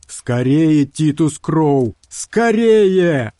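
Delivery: high, loud urgent shout. A narrator's reading. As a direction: hurry him with a shout. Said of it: "выкрикнул Карстерс".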